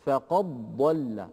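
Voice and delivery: "فقد ضل" with the dal merged straight into a doubled ض; slow "فقد ضل", going from qaf directly to ض; assimilated recitation. Shown as a demonstration. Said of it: "ينتقل من القاف إلى الضاد مباشرة". ("فقد ضل" بإدغام الدال في الضاد)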